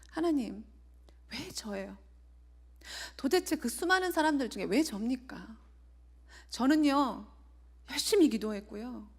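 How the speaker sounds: imitating an angry outcry, rising in pitch and force; retold angry cry to God. Newly diagnosed patient crying out at God, mock-angry. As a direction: replay her furious complaint, half-acted. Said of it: "너무 화가 나서 하나님께 막 소리치며".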